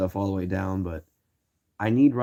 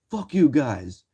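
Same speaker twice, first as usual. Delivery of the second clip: higher, louder mock snap back; retold angry yell; 5 semitones higher, 4 dB louder, slower than usual. Man yelling back at the teens, mild mock anger. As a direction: snap it at the kids.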